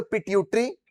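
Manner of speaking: each gland name drawn out slowly for repeating; slow, separated words for the class to repeat; slow recitation. Shown as a demonstration. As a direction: say पिट्यूटरी, पाइनियल, हाइपोथैलेमस slowly so the class can echo. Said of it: "मेरे साथ धीरे-धीरे बोलिए".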